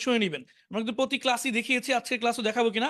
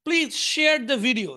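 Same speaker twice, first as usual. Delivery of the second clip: slow model reading; 3 dB louder, much slower than usual. Shown as a demonstration. Teacher's slow English model line.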